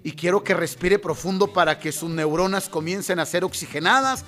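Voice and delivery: soothing coach. Acted. Mother's calm self-help talk.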